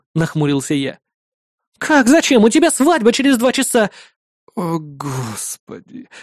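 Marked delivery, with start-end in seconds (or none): 1.8-3.9 put-on exasperated girl. Melissa scolding. 4.6-6.1 soft, slow dismayed sigh; dismayed groan. Acted. Hero realizes forgot wedding.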